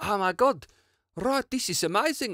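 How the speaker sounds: put-on high, playful, messing-around South African accent. Recalling messing around during a recording break, South African accent. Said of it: "I think I'm doing the South African accent".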